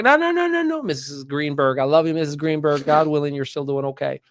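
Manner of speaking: student brushing off teacher, cocky and playful. Retold or imitated. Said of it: "my cocky walk back".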